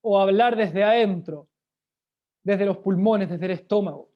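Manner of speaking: teacher showing voice from the stomach; projected from the belly. Shown as a demonstration. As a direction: project from the diaphragm. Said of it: "diferencia de hablar desde la garganta".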